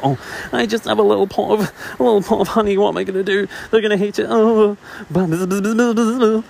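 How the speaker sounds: high, jittery bee fretting to herself; nervous little bee voice. Acted. Little bee frets to herself before the gods, high and nervous. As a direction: squeak it out like an anxious tiny bee. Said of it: "That was a good interpretation slash B impression".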